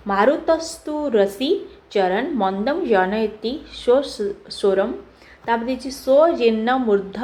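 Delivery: slow, measured verse reading with pauses between phrases; Sanskrit verse recitation. Acted. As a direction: read the shloka out slowly, part by part. (ଧୀରେ ଧୀରେ ସଂସ୍କୃତ ଶ୍ଳୋକ ପାଠ)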